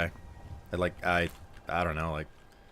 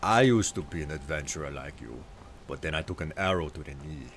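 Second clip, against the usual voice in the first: put-on game guard's line in a lower Nord accent; bad Nord accent; 4 semitones lower than usual. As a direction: recite it in an amateur Nord accent. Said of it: "of a, of a, of a Nord accent".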